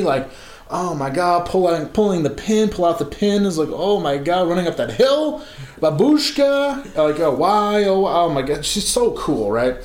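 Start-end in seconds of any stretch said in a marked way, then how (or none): 0.7-8.6 gushing fan. Retold or imitated. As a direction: blurt song references like an overwhelmed fan. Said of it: "I'm talking to her as I'm saying".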